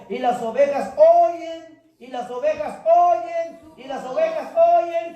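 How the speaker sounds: slow, loud call waiting for the answer; call for response. Shown as a demonstration. Preacher prompting the church to answer, called out loud. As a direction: prompt the congregation to finish it. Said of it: "Cámbienme porque ya me rayé".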